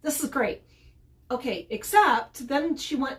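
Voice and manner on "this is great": high, bouncy voice for the eager dog; happy dog voice. Retold or imitated. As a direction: voice the dog suddenly thrilled to play. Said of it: "the dog immediately went".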